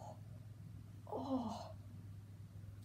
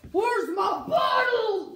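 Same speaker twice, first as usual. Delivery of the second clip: shouted, higher and frantic; shouting; 4 semitones higher than usual. Acted. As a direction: yell it out in a panic. Asks again louder.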